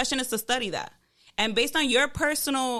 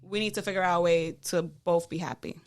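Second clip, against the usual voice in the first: low, measured partner talk; understated, reasonable appeal; calm acted appeal; 5 semitones lower than usual. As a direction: propose it evenly, pitched low. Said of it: "do you say it like that?".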